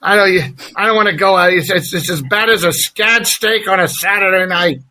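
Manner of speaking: lightly voiced alien greaser. Shown as a demonstration. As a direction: kick off in the character voice. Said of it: "I'm starting with my Grease voice".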